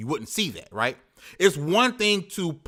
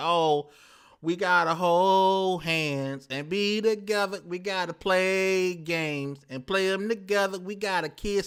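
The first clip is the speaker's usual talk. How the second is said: slow, mushy, sugary, sappy voice; 2 semitones higher, 3 dB quieter than usual. Mocking the group-harmony talk he refuses to give: mocking sappy kumbaya talk. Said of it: "I'm not finna be on some kumbaya".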